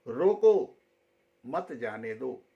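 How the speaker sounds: रोको called out, pause, then मत जाने दो; teacher demonstrates रोको, then a pause before मत जाने दो; pause after रोको. Shown as a demonstration. Teacher showing students where the comma falls, pausing after रोको. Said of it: "उसका उच्चारण होगा, व्याकरण बताएगा".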